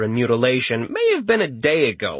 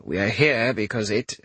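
chamberlain voice. Acted. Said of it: "Randolphus corrected himself".

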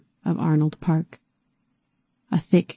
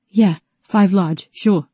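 nervous agreement; 3 semitones higher, 4 dB louder, slower than usual. Acted. Terrified T agrees quickly.

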